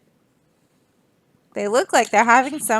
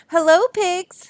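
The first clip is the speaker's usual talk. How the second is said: Duck voice; 7 semitones higher than usual. Acted. Duck greets pigs.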